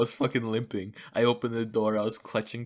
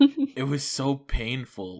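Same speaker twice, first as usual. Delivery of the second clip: slow emphatic; 3 semitones higher, 4 dB louder, much slower than usual. Real, not acted. Stressing pain.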